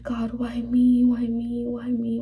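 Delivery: hushed, slow plea through tears; tearful whisper. Real, not acted. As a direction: whisper it like you're about to cry. Crying, asking God why.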